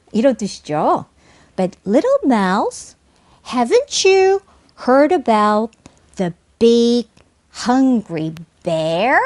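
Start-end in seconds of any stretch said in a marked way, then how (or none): 1.6-9.2 slow, chunked question with "bear" rising at the end; deliberate model question, final lift on "bear". Shown as a demonstration. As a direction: pause after each unit, finish "bear" going up. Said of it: "상승하며 끝맺음합니다".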